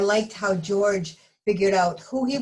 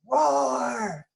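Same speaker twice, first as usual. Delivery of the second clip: mock roar; 6 semitones higher than usual. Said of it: "an earth-shattering roar".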